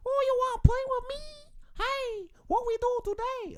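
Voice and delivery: put-on very high, squeaky cute Asian accent, anime style; hammed-up cute anime girl voice. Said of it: "it's the Asian one".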